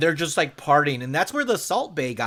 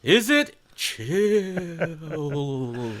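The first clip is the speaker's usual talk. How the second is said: slow spooky voice; much slower than usual. Acted. Segment title echo, slowed.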